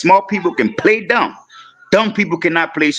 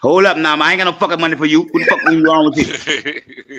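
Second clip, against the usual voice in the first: mock cussing back. Shown as a demonstration. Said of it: "I'ma holler and cuss fuss with you".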